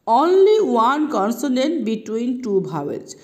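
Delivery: very slow, deliberate rule statement; slow rule read. Shown as a demonstration. Teacher reading the rule slowly to students. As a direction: give the rule word by word. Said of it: "teacher states rule slowly".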